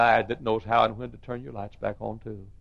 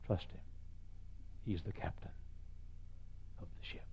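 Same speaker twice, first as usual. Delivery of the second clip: hushed; 3 semitones lower, 16 dB quieter than usual. Acted. Sermon hushed ending.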